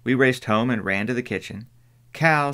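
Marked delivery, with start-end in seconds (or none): 2.1-2.5 calling out. Acted. Jem calling out urgently.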